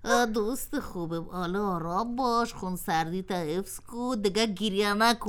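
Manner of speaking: calm the weeping spoon down softly; soothing. Acted. Pot comforts crying spoon, soft and soothing.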